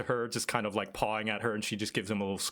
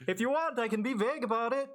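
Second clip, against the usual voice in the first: called out; 11 semitones higher, faster than usual. Acted. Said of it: "She, she shouts out from the other side of the road".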